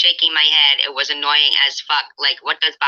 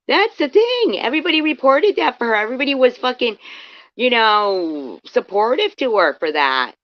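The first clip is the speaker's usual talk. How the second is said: indignant rant; 8 semitones higher than usual. Real, not acted. Streamer venting about the other stream.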